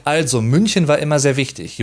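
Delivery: "also" said the German way at the start, plain Germany German; standard German phrasing. Shown as a demonstration. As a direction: say "also München war immer sehr wichtig" in standard German. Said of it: "in German you would say".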